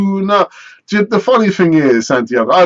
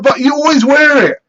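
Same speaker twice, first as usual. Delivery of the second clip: higher mock kid voice; 9 semitones higher than usual. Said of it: "He said".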